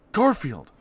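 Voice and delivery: high, loud eager John; John with audacity. Acted. John asks Garfield his plan, high and loud. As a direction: ask boldly in a high voice. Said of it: "asked John Arbuckle with audacity".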